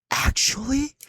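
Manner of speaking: high incredulous squeak; loud disbelieving shriek; shocked disbelief. Real, not acted. Outraged disbelief at friend.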